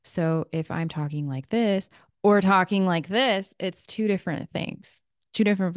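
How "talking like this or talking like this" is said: projected then quiet. Shown as a demonstration. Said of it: "One, people are gonna hear me. The other one, only those in close proximity".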